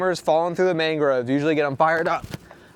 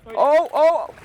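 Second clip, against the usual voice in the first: high excited yelps; 10 semitones higher, 4 dB louder than usual. Real, not acted. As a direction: yelp in excitement. Fish back on the line.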